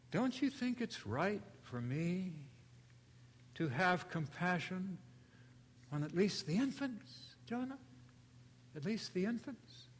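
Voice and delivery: soft, lightly voiced tender questioning; gentle probing question. God gently questions angry Jonah, soft and tender. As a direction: coax him gently toward compassion. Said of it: "Gentle, but very probing".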